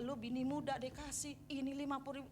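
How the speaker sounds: retold grumble under the breath; grumbling. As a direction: imitate a resentful mutter lightly. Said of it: "Terus ngedumel". (menirukan orang ngedumel)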